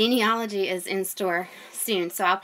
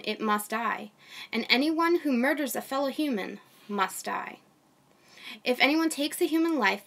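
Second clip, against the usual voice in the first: steady, measured Bible reading voice; scripture reading. Acted. A mom reading Genesis to her online audience, measured reading. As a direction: read the passage aloud to the viewers.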